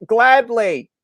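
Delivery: high, loud, hammed-up compliance; mock eager retort. Canadian answering the New York heckler, mock eager. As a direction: fire it back gleefully.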